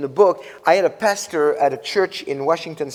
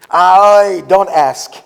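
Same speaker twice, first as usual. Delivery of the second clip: deadpan punchline; 3 semitones higher, 11 dB louder, much slower than usual. Retold or imitated. Punchline of elevator joke.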